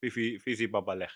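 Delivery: a light take on Zohan's mock foreign gibberish, tossed off fast; quick playful Zohan-style nonsense phrase; lightly done Zohan gibberish; Zohan impression. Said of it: "You don't know the Zohan?".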